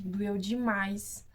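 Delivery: stretches doeu demais out slowly, overdoing the pain; slow, melodramatic doeu demais, as if it hurt terribly; drawn-out exaggeration. Shown as a demonstration. Telling viewers the pain, exaggerated slow drawl. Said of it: "ó, exagero".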